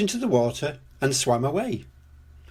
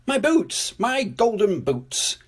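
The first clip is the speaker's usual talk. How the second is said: put-on high-pitched excited child character; exclaiming; 8 semitones higher, slower than usual. A narrator's reading. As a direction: exclaim with delight, slowing on the second phrase. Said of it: "she exclaimed".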